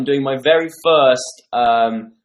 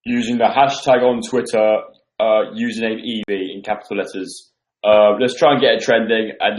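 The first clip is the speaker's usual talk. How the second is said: lightly lowered put-on voice; a hint of a forced deep voice. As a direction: talk low to hide the chipmunk sound. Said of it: "I'm talking with a deep voice".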